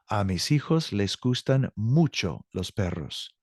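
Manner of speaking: careful, slow read of "A mis hijos les gustan mucho los perros"; slow model sentence. Shown as a demonstration. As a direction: spell out every word for learners. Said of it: "teacher repeats model sentence".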